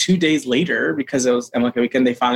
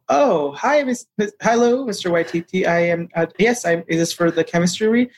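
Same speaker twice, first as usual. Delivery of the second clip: flustered excitement; 4 semitones higher than usual. Retold or imitated. Flustered on call with director.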